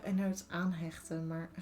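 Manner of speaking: Dutch word aanhechten dropped into English; switching languages midsentence. Real, not acted. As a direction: slips into Dutch with aanhechten, maar. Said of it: "how do you say that in English?".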